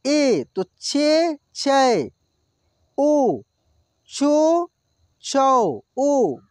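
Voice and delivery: छे drawn out slowly; slow syllable demo. Shown as a demonstration. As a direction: hold छे long like on the board. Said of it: "चिरी". (छे को धीरे लंबा खींचें)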